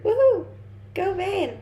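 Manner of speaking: high-pitched whooping cheer; bright little burst of encouragement. Real, not acted. Cheering on a viewer.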